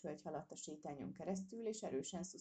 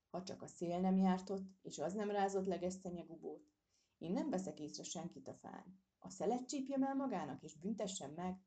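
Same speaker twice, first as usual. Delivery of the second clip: grumbling. Acted. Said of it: "morogta az őr".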